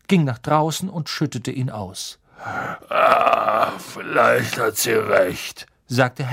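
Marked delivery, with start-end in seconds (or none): 2.4-5.7 slow, sheepish tipsy giant; slow, rueful giant; gruff Hagrid voice. A narrator's reading.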